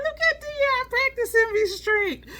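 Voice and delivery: playful high-pitched quote of Janet; quoting a friend. Retold or imitated. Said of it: "She was like".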